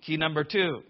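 ordinary talk, nothing marked

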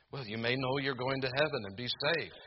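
normal talking voice

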